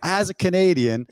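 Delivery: high, mock-outraged echo; as if the idea is absurd; incredulous. Mocking incredulous repeat.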